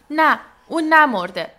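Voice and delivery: high, very loud cry of denial; anguished shout. A narrator's reading. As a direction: shout it out in protest. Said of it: "فریاد زد".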